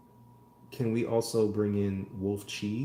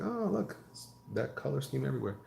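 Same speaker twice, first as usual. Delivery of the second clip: Oh, look said much higher in a quick, amazed retelling; mock surprise; 4 semitones higher, 3 dB quieter, faster than usual. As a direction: act out spotting it all at once, a bit hammed-up. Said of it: "I was like".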